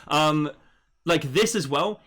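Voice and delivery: ordinary talk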